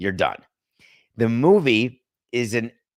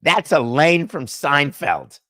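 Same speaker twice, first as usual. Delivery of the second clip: amazed recognition; 3 semitones higher, 5 dB louder, slower than usual. Pretend. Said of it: "you're saying".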